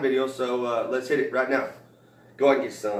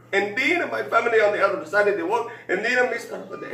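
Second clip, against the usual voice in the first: put-on Mexican accent; 7 semitones higher than usual. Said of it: "He says".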